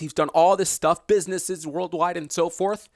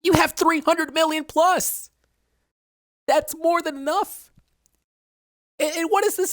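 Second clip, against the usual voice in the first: frustrated outburst; 14 semitones higher than usual. Real, not acted. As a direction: stretch each word out in disbelief. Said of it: "I'm getting mad at the fact that".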